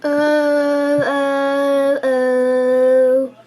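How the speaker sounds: loud repeated moans; loud aching moans; hippo moaning. A narrator's reading. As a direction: groan with each bump. Hippo bumping down mountainside.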